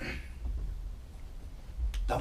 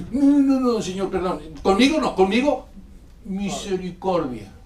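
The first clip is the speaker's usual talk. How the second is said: panicked crying out; 3 semitones higher than usual. Retold or imitated. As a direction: plead frantically not me. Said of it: "a gritar". (grito de pánico fingido, más agudo)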